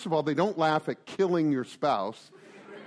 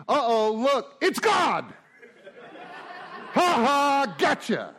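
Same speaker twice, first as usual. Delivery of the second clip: mock gotcha; 6 semitones higher, slower than usual. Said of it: "go to three".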